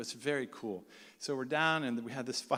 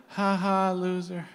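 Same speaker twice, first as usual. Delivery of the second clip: louder, higher taunt; mocking laugh; 5 semitones higher, 5 dB louder, slower than usual. Palestinians taunting on the trek, mocking. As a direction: jeer with a fake "ha ha".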